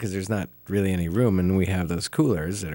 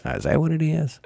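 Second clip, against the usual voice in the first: bored bus driver; 8 semitones higher than usual. Retold or imitated. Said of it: "Talks like this".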